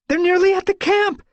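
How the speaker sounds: high, loud cry of warning; yowling alarm. Acted. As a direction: yowl it out in alarm. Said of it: "Tawny Pelt yowled".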